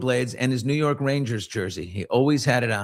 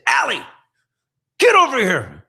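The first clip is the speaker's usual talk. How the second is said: louder, higher angry command; brother snapping; 11 semitones higher, 7 dB louder than usual. Retold or imitated. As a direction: bark it at the bully. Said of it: "he snapped".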